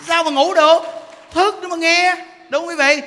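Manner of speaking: high, loud, rousing call; punchy shouted questions to the crowd; booming preaching style. Shown as a demonstration. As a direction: preach loudly enough to wake the dozers. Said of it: "cái tông giảng của Như Đức".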